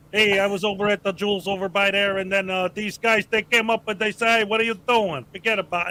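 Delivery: Chicago accent sliding into gangster New York; Chicago slipping into New York. Shown as a demonstration. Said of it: "when I do my Chicago accent".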